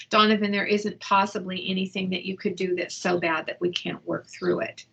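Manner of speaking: steady, gentle reassurance to her son; calm reassuring mom. Shown as a demonstration. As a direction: soothe him so he'll open up. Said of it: "this is Mom, this is how I talked with him".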